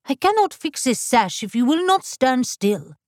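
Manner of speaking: a touch of snappish dressmaker; lightly voiced impatient seamstress; sharp scolding. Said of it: "Madame Lefebvre snapped".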